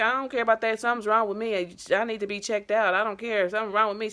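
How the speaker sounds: retold pleading. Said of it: "And I'm like".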